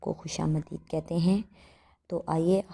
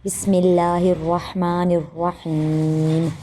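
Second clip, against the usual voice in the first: quicker recitation; 5 dB louder, much slower than usual. Shown as a demonstration. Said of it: "ایک بار پھر پڑھتے ہیں".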